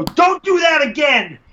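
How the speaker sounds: high, drawn-out mock shout; scolding official. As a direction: imitate an official yelling a warning. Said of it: "hear the official go up to him and go".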